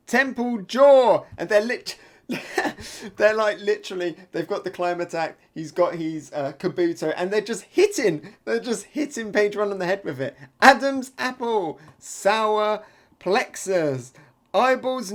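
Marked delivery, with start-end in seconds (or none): 0.1-1.2 loud, high, drawn-out battle cry; attack call. Acted. Manga fighter striking the enemy, shouted attack call. 10.6-15.1 loud, high calls, one target at a time; battle call. Acted. Fighters hitting an enemy's weak spots, shouted battle calls.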